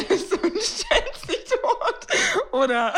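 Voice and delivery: slow, high, laughing. Real, not acted. Host laughing while picturing playing dead, high and slow. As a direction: laugh through the question.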